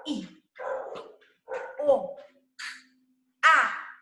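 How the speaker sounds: "I", "O", "A" as isolated sounds with long gaps; sounded out. Shown as a demonstration. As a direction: sound out "I", "O", "A" one at a time. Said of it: "a palavra nos sons".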